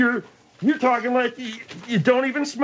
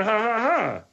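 imitated laugh. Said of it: "come out like a song".

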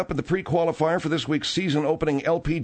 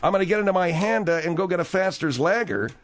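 pitched-up mock Australian accent; a passable Australian accent, raised pitch; 5 semitones higher than usual. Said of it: "I do an Australian accent better".

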